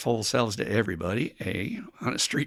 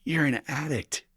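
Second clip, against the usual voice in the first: blunt sponsor talk; 5 semitones higher, 7 dB louder than usual. Retold or imitated. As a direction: lean in hard and tell him like it is. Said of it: "I say".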